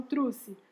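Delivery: "trouxe" quoted as "trusse"; children's wrong form. Shown as a demonstration. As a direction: give "trouxe" an oo vowel instead of oh. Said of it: "Por que que elas falam".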